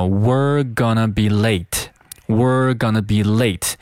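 slow "We're" reduced to "wur" before gonna; weak linked form. Shown as a demonstration. Teacher models the sentence, slow reduced "We're". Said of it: "这句话就变成了".

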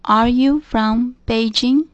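slow model reading. Shown as a demonstration. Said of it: "repeats the question slowly".

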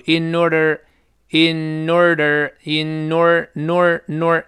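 in order run together as "i-nor-der"; in order broken down to a linked nor. Shown as a demonstration. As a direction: slide the n into order, slowly. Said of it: "必然出现前鼻音连读".

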